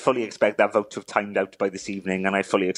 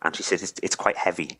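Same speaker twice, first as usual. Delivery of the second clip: low, halting, close to tears; real emotion catching in the throat; choked up; 3 semitones lower than usual. Real, not acted. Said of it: "Sorry, I'm choking up".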